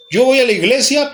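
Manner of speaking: mock bargaining churchgoer.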